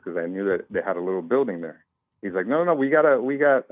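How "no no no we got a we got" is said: mild mock yell, pitched high; retold yelling. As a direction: imitate a man's insistent objection in a higher voice. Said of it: "He's just kinda yelling at me".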